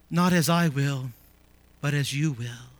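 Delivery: low, soft quoted prayer, sinking at the end; hushed submissive prayer. Retold or imitated. Preacher quotes Jesus yielding amid agony, hushed. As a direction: drop low and soft, surrendering.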